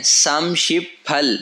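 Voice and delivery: समशिप फल spoken slowly, each syllable clear; slow Korean number. Shown as a demonstration. Teacher showing students the Korean for thirty-eight, slow and clear. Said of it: "अठतीस को क्या कहते हैं?".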